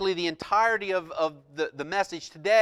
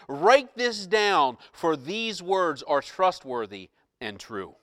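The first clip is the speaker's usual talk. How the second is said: voice from the throne; 4 dB louder, slower than usual. Acted. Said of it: "he said".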